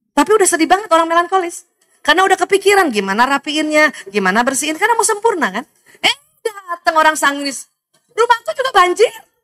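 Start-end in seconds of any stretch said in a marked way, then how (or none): 8.2-9.2 bright, cheerful, pitched-up, acted-out overjoyed tone. Acting out a sanguine person's reply, mock-cheerful, acting very happy. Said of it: "Bahagia banget".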